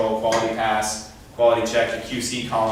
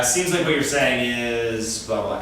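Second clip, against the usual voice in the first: tactful paraphrase; slower than usual. Shown as a demonstration. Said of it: "as opposed to".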